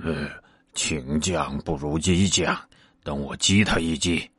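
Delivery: soft, low private scheming; hushed scheming aside to himself; thinking to himself. A narrator's reading. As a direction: murmur the plan under the breath. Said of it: "八戒又思量道".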